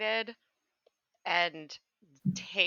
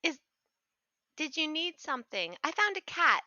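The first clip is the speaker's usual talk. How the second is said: sweet character voice; 6 semitones higher than usual. Acted. Player's character voice.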